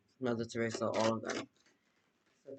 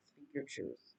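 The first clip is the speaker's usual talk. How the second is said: echoing her own advice to viewers, lower and hushed; soft low echo; 5 semitones lower, 10 dB quieter, slower than usual. Shown as a demonstration. Repeating the line to viewers, softer and lower. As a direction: lower and much softer, almost to herself. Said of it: "repeats the command twice".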